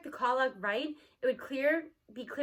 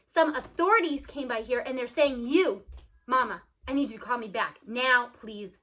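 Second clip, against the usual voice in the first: louder, pressing father's plea; worried dad's voicemail, louder and urgent; 6 dB louder than usual. Acted. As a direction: push hard, he needs her to call.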